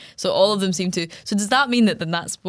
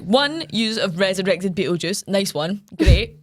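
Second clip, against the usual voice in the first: sarcastic telling-off; 3 dB louder, slower than usual. Retold or imitated. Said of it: "She's just like".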